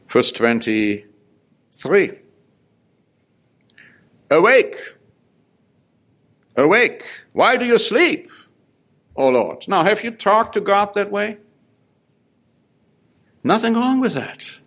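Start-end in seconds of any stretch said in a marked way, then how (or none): 4.3-9.7 raised, high call to wake God; urgent cry. Acted. 9.7-14.6 emphatic challenge. Real, not acted. Preacher challenges congregation.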